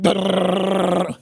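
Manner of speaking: rolled brrrr like an SMG; imitated gunfire noise. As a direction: mimic a submachine gun rattle. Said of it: "Sounds like an S M G going off".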